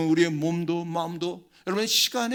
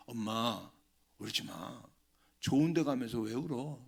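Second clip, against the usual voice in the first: soft, low consoling voice; gentle comfort; 4 semitones lower, 5 dB quieter than usual. Retold or imitated. Son gently comforting his dying mother, soft and tender. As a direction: hush her tears tenderly.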